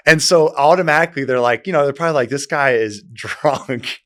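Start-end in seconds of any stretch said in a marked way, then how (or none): 2.3-4.0 laughing quote. Retold or imitated. Imitating girls judging him drunk.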